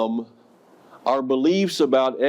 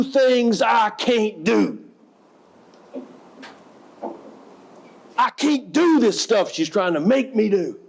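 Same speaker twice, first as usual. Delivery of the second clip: angry shout; 10 semitones higher, slower than usual. Retold or imitated. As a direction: yell it out, near tears with frustration. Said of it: "She is mad".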